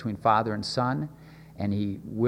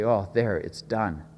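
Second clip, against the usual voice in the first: a tired little done; weary sigh of relief; 5 semitones lower, slower than usual. Retold or imitated. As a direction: trail off as if barely finishing a chore. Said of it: "not that cry that you and I".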